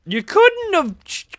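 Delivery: high, slow, stretched-out complaint; exasperated whine. Real, not acted. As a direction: whine it up high at Leon in disbelief. Exasperated at Leon's choice.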